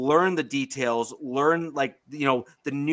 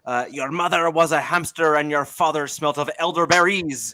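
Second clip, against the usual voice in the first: Monty Python taunt. Retold or imitated. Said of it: "go Monty Python".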